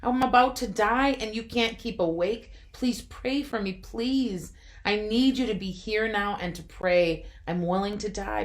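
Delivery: Jesus rebukes his sleeping friends angrily; angry. Acted. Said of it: "He was angry".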